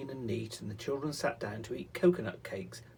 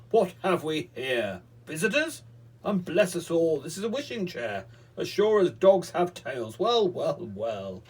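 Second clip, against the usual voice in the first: wizard voice; 5 semitones higher, 9 dB louder than usual. Acted. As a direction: gloat like a sly little wizard.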